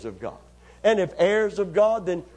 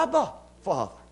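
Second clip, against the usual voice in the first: intimate, loving. Shown as a demonstration. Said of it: "but in love and intimacy".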